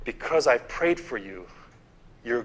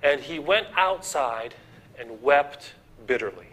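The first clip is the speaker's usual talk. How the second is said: scripture reading. Shown as a demonstration. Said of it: "It says".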